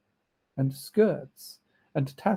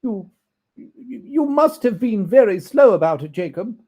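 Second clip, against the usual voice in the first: a hint of a humble businesslike tone; businesslike but humble; 9 semitones higher, 10 dB louder than usual. Scrooge questioning the ghost, lightly businesslike. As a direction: deferential matter-of-fact remark. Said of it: "in a businesslike manner, though with humility".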